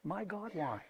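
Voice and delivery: barely audible lament; hushed plea. Acted. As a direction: murmur it like a private prayer. Quoting cry from the cross.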